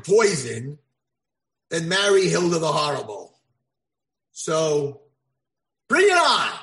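rising to a loud, high dare; defiant challenge. Acted. Prince defying old man, loud and high.

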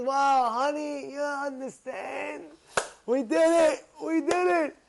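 slow, high, elated cry of triumph; overjoyed husband. Acted. Husband to wife after hanging it, thrilled. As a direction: crow with delight, drawn out and high. Husband celebrates finally finishing job.

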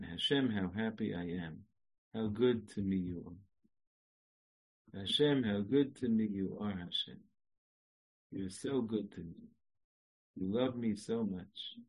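whisper-close gratitude to God; soft tender prayer. Shown as a demonstration. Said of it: "different sentences you can say".

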